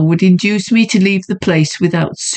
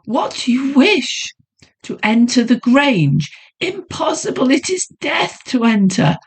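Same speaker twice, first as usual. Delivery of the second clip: alarmed woman; 7 semitones higher than usual. A narrator's reading. Woman voiced, high, alarmed.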